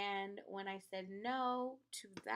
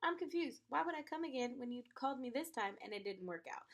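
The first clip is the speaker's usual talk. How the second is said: incredulous; 3 semitones higher than usual. Retold or imitated. Incredulous reaction to the demand.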